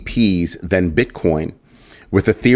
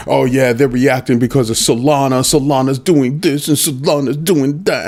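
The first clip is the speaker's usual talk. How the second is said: mocking him; 5 semitones higher than usual. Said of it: "He's like".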